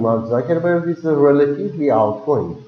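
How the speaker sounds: relatively said smoothly, no big rise; even medium tune. Shown as a demonstration. Teacher models medium intensity: relatively said flat and smooth. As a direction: glide through relatively, level. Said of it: "you need to go smoothly".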